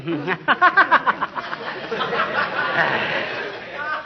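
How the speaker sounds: high breathy rolling laugh; enjoy the joke fully; long wheezy laugh. Acted. McGee amused by the flying razor pieces, wheezy laugh.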